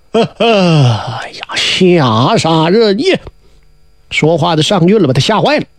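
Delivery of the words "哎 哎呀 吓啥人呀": slow, hushed, scared whisper; frightened whisper. A narrator's reading. Yang Jian whispering in fear at his shaken uncle. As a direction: breathe it out in fright.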